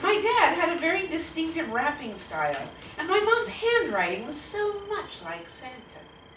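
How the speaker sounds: measured, storytelling read-aloud; story narration. A narrator's reading. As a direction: narrate a childhood memory to an audience. Narrates between quotes.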